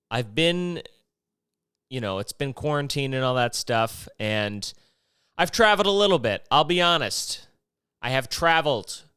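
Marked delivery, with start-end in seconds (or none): 5.4-9.0 traveled stressed, louder and higher; mock confession. Joking to listeners about pandemic travel, mock guilty confession. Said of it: "I'm a rebel".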